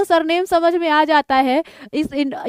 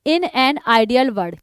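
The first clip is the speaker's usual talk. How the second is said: slow title; 2 semitones lower, much slower than usual. Shown as a demonstration. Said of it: "sorry".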